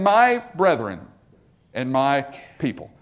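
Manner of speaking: fatherly compassion for his people. Acted. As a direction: speak to them with love. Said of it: "addresses them in this tone of compassion".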